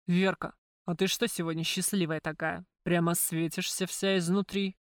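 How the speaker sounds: слегка пониженный голос Макара, с подозрением; лёгкий намёк на ревнивого бандита, выпытывай; подозрительно. Acted. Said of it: "подозрительным голосом спросил". (Макар подозрительно допрашивает Верку в гримёрке)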